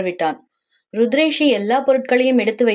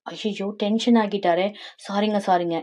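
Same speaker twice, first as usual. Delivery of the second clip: soft, backing-down sorry; hushed apology; 5 dB quieter than usual. Acted. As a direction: drop the volume and placate him. Backing off from annoyed husband. (தணிந்த குரலில் மன்னிப்பு)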